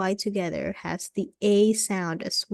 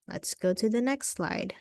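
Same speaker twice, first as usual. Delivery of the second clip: whisper; 3 semitones higher, 4 dB quieter than usual. Real, not acted. Whispered aside to self.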